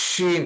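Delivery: শিন with a strong, held sh; emphatic drawn-out শিন; very firm consonant. Shown as a demonstration. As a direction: press hard into the hiss of শিন. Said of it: "খুব শক্ত করে উচ্চারণ করব".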